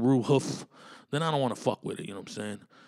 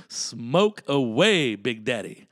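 mock encouragement; 6 dB louder, much slower than usual. Friend mock cheering him.

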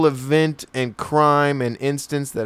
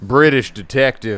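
mock Foghorn Leghorn. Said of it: "talking like Foghorn Leghorn".

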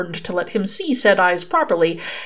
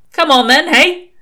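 loud, high impatient shout; impatient call; 10 semitones higher, 8 dB louder than usual. A narrator's reading. Crowley prods the nightingale to sing, impatient call. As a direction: call out sharply to hurry someone along. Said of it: "waved a hand impatiently at the nightingale".

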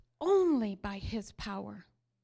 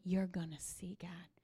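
whisper; 3 semitones lower, 7 dB quieter than usual. Real, not acted. Preacher urging the congregation to wait, whispered. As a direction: breathe the words like a secret. Quiet close of sermon.

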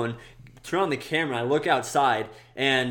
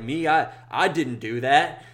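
slow, puzzled imitation of innocence; dazed mock denial; 2 semitones higher, slower than usual. Intoxicated driver accused of crash, slow dazed denial. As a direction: drag it out like a man not quite there.

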